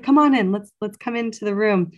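high, loud eager calling-in; excited call. Retold or imitated. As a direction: summon her in, buzzing with urgency. Midwife calls her in urgently.

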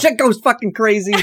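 laughing. Real, not acted. Laughing while hyping the season.

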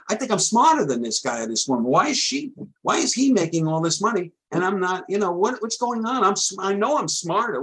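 lightly acted baffled grumbling, pitch climbing; indignant mock complaint. Struggling trader asking why others make money, mock indignant.

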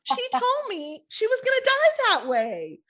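words pushed out high through laughter; laughing while talking. Real, not acted. Laughing while retelling the death.

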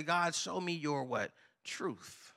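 fading to a whisper on Truth; hushed prayer. Acted. Preacher voicing a prayer, fading into a whisper. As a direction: drop the voice to a breath at the end.

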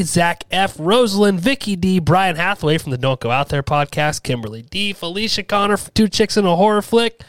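no pause to breathe through the list; all in one breath. Shown as a demonstration. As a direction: rattle off the names in one breath. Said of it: "Let's see if I can do this in one breath".

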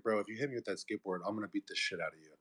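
low, quick understated threat; serious warning. Retold or imitated. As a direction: warn him off quietly, voice dropped. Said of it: "then I got kinda serious".

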